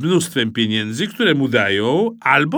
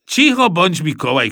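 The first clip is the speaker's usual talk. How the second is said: irritated dad's raised voice; shouted hushing; 5 semitones higher, 5 dB louder than usual. A narrator's reading. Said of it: "krzyknął tata". (podniesiony głos zirytowanego taty)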